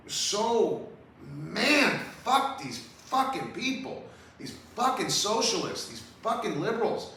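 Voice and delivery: exasperated high-pitched outburst; angry. Real, not acted. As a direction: spit it out in disgust. Angry rant at liberals.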